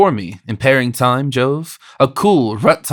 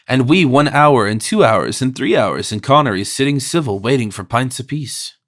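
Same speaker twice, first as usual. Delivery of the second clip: querulous Irish brogue. Acted. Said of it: "keened in a querulous brogue".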